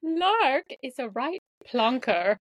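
slow, careful mock British accent; American's playful stab at British English; put-on British accent. American teasing her British friend from scripted sentences, put-on British accent. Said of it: "talk like a British person".

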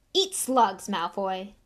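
loud, curt angry retort; a touch of schoolboy fury. Acted. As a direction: hit the first words hard and angrily. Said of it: "said Ron angrily".

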